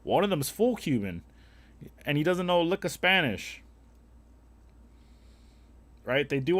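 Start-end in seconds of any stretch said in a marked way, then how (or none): 0.0-3.6 high, loud mock bragging voice; mocking a poser. Mocking half-Cuban guys bragging, high loud mock voice. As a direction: brag it up high like a fake.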